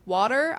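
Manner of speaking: "water" with a rounded aw, WAW-ter; Jersey-style WAW-ter; one way of WATER. Shown as a demonstration. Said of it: "I can say water or water".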